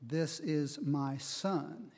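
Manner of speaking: slow, deliberate declaration from heaven; measured, emphatic pronouncement; God's declaration. Retold or imitated. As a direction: quote God, spacing out each word to make it clear. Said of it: "God speaks from heaven and makes it quite clear".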